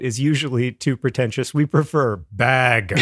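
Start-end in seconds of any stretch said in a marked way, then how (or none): 1.5-3.0 mock shout. Mock proud declaration.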